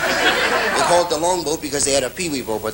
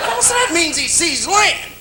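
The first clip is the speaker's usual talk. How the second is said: a touch of an explaining crewman; 13 semitones higher, slower than usual. Acted.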